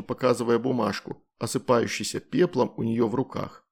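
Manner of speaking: usual speaking voice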